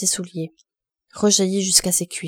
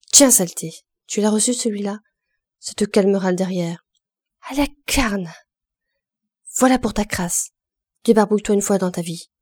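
fighting jeers; 3 dB louder than usual. Acted. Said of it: "chaque déluge était accompagné d'un éclat de voix".

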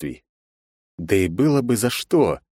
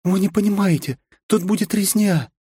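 sighing; 12 semitones higher than usual. Acted. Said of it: "вздохнула девушка в костюме единения".

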